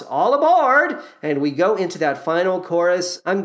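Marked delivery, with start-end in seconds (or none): 0.0-1.0 high, slow, drawn-out call; Carol Channing shout. Retold or imitated. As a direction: belt it like a conductor's call. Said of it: "when Carol Channing shouts".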